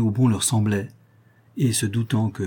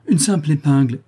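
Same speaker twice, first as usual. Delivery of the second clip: raised, louder exclamation; 5 semitones higher, 5 dB louder than usual. A narrator's reading. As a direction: exclaim it as a sudden discovery. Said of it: "s'écrièrent-ils en même temps". (s'écrier, plus haut et plus fort)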